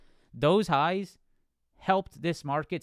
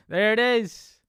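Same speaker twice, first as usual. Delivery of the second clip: excited; 8 semitones higher, 9 dB louder than usual. Real, not acted. Streamer sees the moment arrive.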